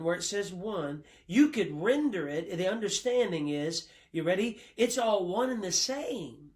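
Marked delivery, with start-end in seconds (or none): 4.8-6.5 "one and the same" pitched up and driven home; emphatic rendering. Real, not acted. Preacher giving the emphatic Greek sense, stressing "one and the same". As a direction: land "one and the same" emphatically, higher than usual. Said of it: "Because it's emphatic".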